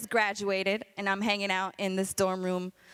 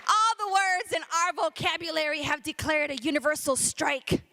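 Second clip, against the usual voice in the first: rhythmic, driving slam poetry delivery; spoken word poem; 6 semitones higher than usual. Acted. Poet defending their Puerto Rican speech, rhythmic slam delivery. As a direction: punch out the syllables in a steady beat.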